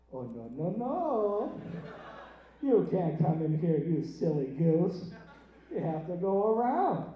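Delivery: mock-smug gatekeeper in a put-on accent; drawn-out, self-important refusal. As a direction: play a smug cashier turning people away. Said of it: "I get smug, I gain an accent".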